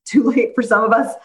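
laughing nervously mid-sentence; awkward little laugh. Real, not acted. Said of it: "that was a nervous laugh".

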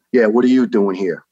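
retold brusque challenge, punched at the start; brusque doctor. Doctor challenges a sick firefighter who turns up, brusque. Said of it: "Just like that".

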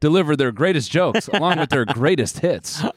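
mock show announcer. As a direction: hype promo with swooping pitch. Mock promo for comedy show.

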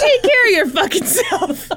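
high, laughing New York accent impression. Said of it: "very thick New York accent".

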